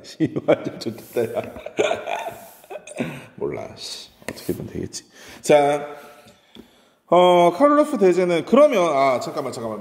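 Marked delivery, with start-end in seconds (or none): 0.0-5.0 muttered, half-laughing curses; cursing under breath. Real, not acted. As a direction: mumble it under your breath.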